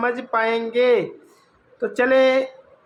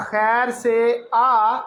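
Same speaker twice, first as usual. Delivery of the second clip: slow reading. Shown as a demonstration. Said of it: "الف مدہ آ".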